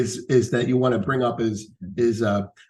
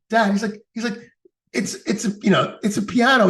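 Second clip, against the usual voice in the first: exasperated son; 9 semitones higher than usual. Retold or imitated. Son protests to father.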